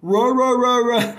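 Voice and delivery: imitating a ranting critic with loud high rahs; mock barking rant. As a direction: bark it out like a yappy dog. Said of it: "triggered you to be like".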